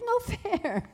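high-pitched whiny objection; playful high-voiced sulk; mock childish protest. Retells childlike protest to the Lord.

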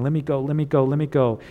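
insistent, repeated plea in a quick run; lightly acted begging to be let go; mock impatient pestering; eager pleading.

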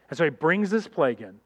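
normal talking voice

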